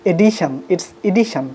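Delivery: "edition" first mistaken, then corrected, slowly; wrong then right. Shown as a demonstration. A teacher contrasting the mistaken and correct forms. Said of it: "Never say it".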